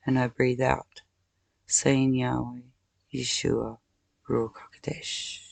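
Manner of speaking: slow, even chant of holy names; breathing meditation. Shown as a demonstration. Teaching viewers to breathe through anger, slow meditative chant. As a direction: guide the breath calmly.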